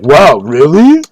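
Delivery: slow, exaggerated mock amazement; mocking imitation. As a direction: drag it out, swooping up high on really. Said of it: "Just start making fun of him".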